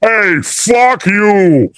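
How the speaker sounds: gruff, slow Boston heckle from the background; Boston tough guy. Retold or imitated. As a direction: drag out a rude Boston insult. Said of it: "In the background, you hear".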